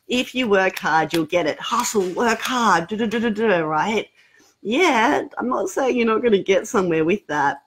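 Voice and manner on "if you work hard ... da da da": lightly voiced grumpy old man; a hint of a stern grumbling elder. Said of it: "old grumpy man voice".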